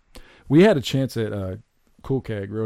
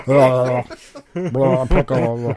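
laughing mock; 2 semitones higher, 6 dB louder, much slower than usual. Mocking the pickle line.

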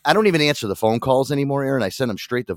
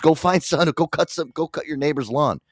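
higher-pitched mock dad rattling off chores; impatient dad voice, played for laughs; exasperated dad; 6 semitones higher than usual. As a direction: imitate a father ordering his kid to find work. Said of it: "That's how my dad was".

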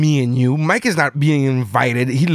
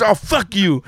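higher-pitched mock outrage; imitating mad wife; 6 semitones higher, slower than usual. Wife cursing out her husband, mock mad. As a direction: act out an indignant comeback. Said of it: "She got so mad".

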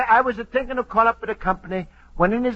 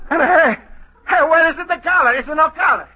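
higher and louder, startled by the missing collar; shocked discovery, voice jumping up; alarmed surprise; 7 semitones higher, 5 dB louder than usual. Acted. Luigi finding his new suit has no collar, alarmed Italian accent.

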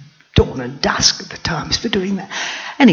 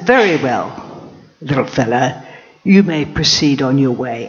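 regal lioness; 3 semitones lower than usual. Acted. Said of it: "And so I said".

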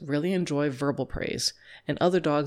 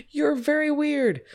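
much higher and slow, incredulous; weirded out; 10 semitones higher, slower than usual. Pretend. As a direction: say it like they've lost it. Guest reacting to odd host.

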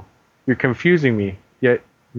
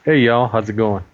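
fake American accent. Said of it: "my fake American accent".

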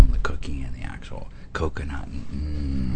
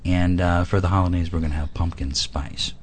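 infomercial read. Acted. Reads product pitch like ad.

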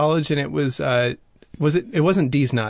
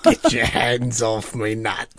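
put-on English accent; 5 semitones lower, slower than usual. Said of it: "The English, um, accent is very deceiving".

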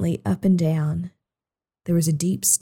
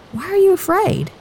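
calm question; 11 semitones higher than usual. Acted. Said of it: "he said to his friends".

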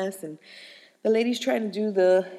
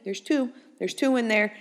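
retold panicky rambling; 4 dB louder, faster than usual. Retold panicky repeating to best friend.

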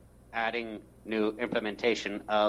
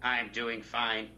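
toy robot voice; slower than usual. Acted. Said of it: "my robot, Jacobtron three thousand".

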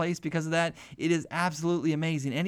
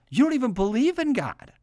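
emphatic; 8 semitones higher, 5 dB louder than usual. Acted. Preacher's emphatic rise.

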